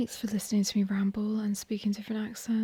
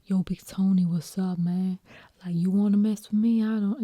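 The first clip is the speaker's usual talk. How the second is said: New York tough-guy accent; 4 dB louder than usual. Shown as a demonstration. Confronting Big Tony, mock New York accent. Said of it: "like, New York".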